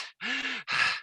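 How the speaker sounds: high puffing exhale; breathless sigh. Retold or imitated. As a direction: gasp out a winded breath. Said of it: "Let me catch my breath first".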